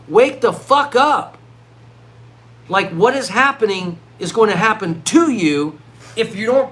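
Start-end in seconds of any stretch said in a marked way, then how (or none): 0.1-1.4 slow, loud wake-up yell; slow emphatic yell. Real, not acted. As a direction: shout it at the audience to wake them. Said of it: "Maybe I'm screaming at you now saying".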